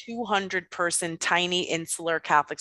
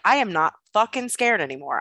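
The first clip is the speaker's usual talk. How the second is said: defiant outburst; 5 semitones higher than usual. Retold or imitated. Child defying the stern nun.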